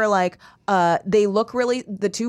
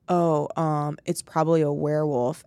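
imitating Luke; 6 semitones lower than usual. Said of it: "so Luke, like, is like".

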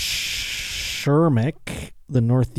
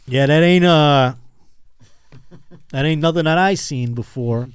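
folksy roofer; 3 semitones higher, 3 dB louder than usual. Retold or imitated. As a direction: play a backwoods roofer squinting at the rock. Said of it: "he's like".

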